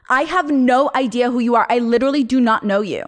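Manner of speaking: imitating an emphatic, dismissive woman; mildly aggressive retold snub; mock aggressive. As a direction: mimic her insistent brush-off, every word pressed. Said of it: "the person to be so aggressive".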